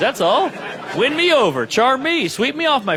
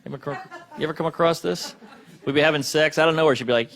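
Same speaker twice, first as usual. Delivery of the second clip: normal talking voice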